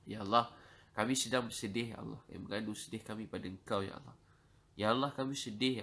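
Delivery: loud, repeated desperate cry to God; crying out for help. Real, not acted. Preacher crying out to God for help, loud desperate plea. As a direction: call out again and again, pleading.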